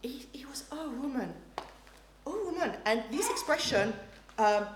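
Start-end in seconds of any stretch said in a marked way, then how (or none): 0.7-2.8 soft, caring call; gentle. Shown as a demonstration. Jesus addressing his mother kindly, gentle. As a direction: say it kindly, not as a rebuke. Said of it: "Not at all".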